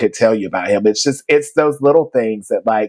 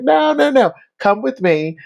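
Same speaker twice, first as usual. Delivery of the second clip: reassuring mentor; 11 semitones higher than usual. Retold or imitated. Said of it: "And he's like".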